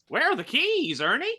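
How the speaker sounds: high-pitched, loud yell; yelling back. Acted. Player's character calls back to Ernie for the keys, yelling. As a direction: holler the question across the room. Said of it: "I'm gonna just yell back to Ernie".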